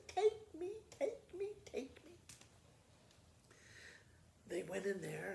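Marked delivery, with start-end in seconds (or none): 0.1-2.1 high, insistent begging; eager girl pleading to come along. Acted. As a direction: beg to be taken, higher each time. Blanche begging the old lady.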